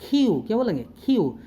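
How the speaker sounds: क्यू with an aspirated ख-like K; corrected sound. Shown as a demonstration. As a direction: say क्यू with a breathy K. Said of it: "ख का sound देंगे".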